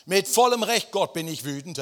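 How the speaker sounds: high, loud outburst at God; furious shout. Acted. Jona yelling his anger at God, loud and high. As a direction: shout your right to be angry. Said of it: "das gefällt mir".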